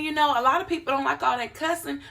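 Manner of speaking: ordinary delivery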